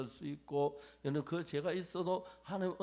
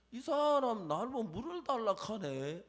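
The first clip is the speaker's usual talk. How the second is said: scoffing woman; 5 semitones higher, 4 dB louder than usual. Retold or imitated. Woman scoffing at Jesus, dialect.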